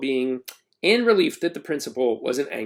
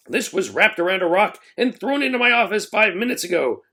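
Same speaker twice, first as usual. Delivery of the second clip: proclaiming; 6 semitones higher than usual. A narrator's reading. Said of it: "the principal proclaimed".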